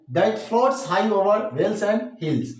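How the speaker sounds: stretched out slowly; slow poetry reading; slow recitation. Shown as a demonstration. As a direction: read the line so the end rhyme is heard. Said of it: "इस पंक्ति के अंत में".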